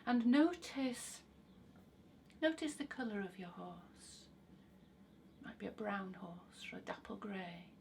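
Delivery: calm guiding voice with long pauses; guided visualization. Acted. Guide leading listeners onto an imagined carousel, guided visualization. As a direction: lead them gently into the imagined scene.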